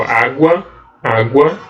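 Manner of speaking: água com o U bem rapidão e fraco; quick weak U. Shown as a demonstration. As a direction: diga água, o U fraquinho e rápido. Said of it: "mas bem rapidão". (água com U de semivogal)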